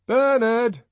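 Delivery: very high, loud call. A narrator's reading. The young man calling for Bernard at the rest house. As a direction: call for him across the distance. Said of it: "he called".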